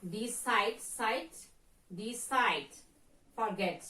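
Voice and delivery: "decide" and "forget" stressed on CIDE and GET; stress on second syllable. Shown as a demonstration. Teacher shows verbs "decide", "forget", second syllable stressed. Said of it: "in the second syllable".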